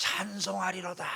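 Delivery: high, joyful voice.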